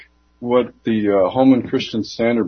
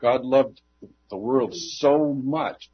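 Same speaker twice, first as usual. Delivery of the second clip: "so much" drawn out slowly; stress on SO MUCH; 2 semitones higher, slower than usual. Shown as a demonstration. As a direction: stretch "so much" as a measure of degree. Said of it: "people misinterpret as so much".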